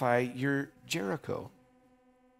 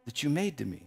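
a desperate king reminding God of his promise, rising to a shout; David's pleading prayer; 8 semitones higher, 8 dB louder than usual. Acted. David praying to God for his promise, building from hushed to shouting. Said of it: "this is the way he prayed".

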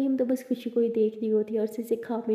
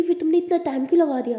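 higher, louder, mildly cross; annoyed complaint; 5 semitones higher, 6 dB louder than usual. A narrator's reading. Mariyam grumbles at Abira for taking so long, mildly cross. Friend complains about waiting.

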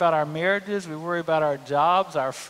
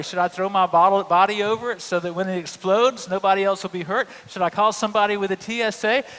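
mock panic; 2 semitones higher, 4 dB louder than usual. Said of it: "And you worry".

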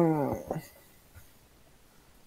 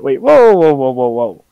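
surprised; 3 semitones higher, 8 dB louder than usual. Real, not acted. Sees dislike on stream.

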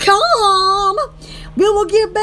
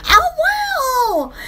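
surprised; 9 semitones higher than usual. Real, not acted. Loud surprise.

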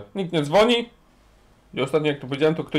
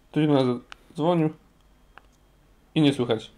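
ordinary delivery

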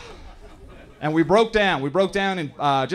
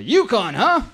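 tow guy's son; 8 semitones higher, 7 dB louder, slower than usual. Retold or imitated. Son of tow driver quoted.

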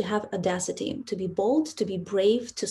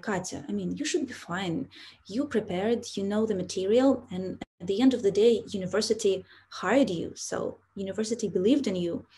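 softer, calm self-reassurance; reassuring inner voice; 4 dB quieter than usual. Retold or imitated. Nervous new teacher soothing herself before class, softly reassuring. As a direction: talk yourself down gently, softer. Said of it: "was telling me".

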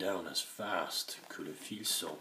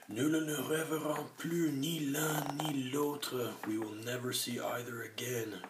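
groaning; 7 semitones higher than usual. A narrator's reading. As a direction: wail in despair. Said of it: "gémit".

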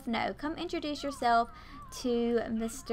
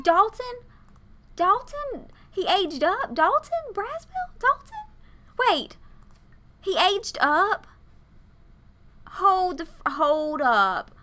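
high, loud cries of disbelief; shocked disbelief; 8 semitones higher, 6 dB louder than usual. Real, not acted. Player discovers Dalton aged up, loud shock. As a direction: call the name out high, stunned, building louder.

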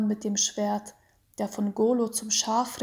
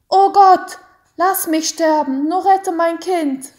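high, shrieking plea to God; loud scream; 7 semitones higher, 11 dB louder than usual. A narrator's reading. Mother screams to God to save her child. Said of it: "schrie laut".

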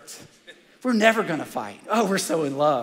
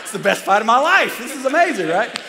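higher and louder, laughing through it; laughing delight at the story's ending; 6 semitones higher, 7 dB louder than usual. Real, not acted. Pastor laughing as he tells the congregation about his fight, higher and louder.

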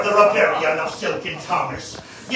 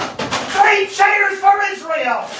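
higher, slow bellowed toast; bawling out; 10 semitones higher, 5 dB louder, much slower than usual. Acted. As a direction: bawl it out like a drunk rabble-rouser. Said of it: "he bawls out".

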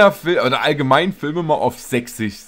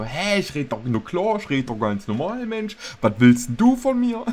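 indignant comeback, pitch jumping up at the end; mock indignant retort; 2 semitones higher than usual. Nephew defending own dialect to the uncle, mock indignant.

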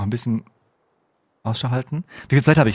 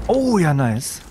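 drawn-out delighted exclamation; pleased at a lucky find; 4 semitones higher, much slower than usual. Real, not acted.

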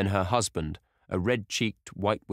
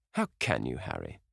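Dorian crying out; 6 semitones lower than usual. A narrator's reading. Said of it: "cried Dorian".

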